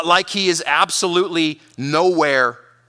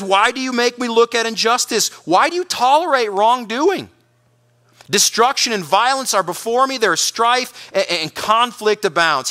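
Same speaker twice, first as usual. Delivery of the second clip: mildly desperate protest, higher pitched; desperate cry; 4 semitones higher than usual. Acted. Preacher reading Habakkuk's complaint to God, mildly desperate. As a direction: raise the pitch and press each question. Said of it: "It's a desperate cry".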